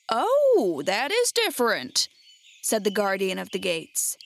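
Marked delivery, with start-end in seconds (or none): 0.1-2.1 a startled little gasp of surprise; surprised gatekeeper. Acted.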